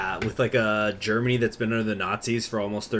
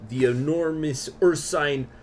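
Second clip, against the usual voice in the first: ursine drawn out slowly and savored; savoring a word; 5 semitones higher, 4 dB louder, slower than usual. A narrator's reading. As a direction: linger lovingly on ursine. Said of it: "love that word".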